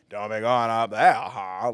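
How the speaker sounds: spooky Maine neighbor accent; creepy Maine accent. Shown as a demonstration. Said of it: "Like that, that sound".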